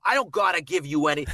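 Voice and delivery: "gotta" with an exaggerated broad ah; mistaken Boston vowel. Shown as a demonstration. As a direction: overdo the open vowel in "gotta". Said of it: "We don't say it, though".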